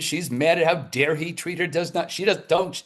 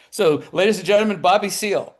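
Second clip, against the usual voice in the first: playful, louder showman intro; mock announcer; 5 semitones higher, 4 dB louder than usual. Guest on the Mike Douglas Show, mock showbiz announcer. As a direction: introduce Bobby Seale like a host.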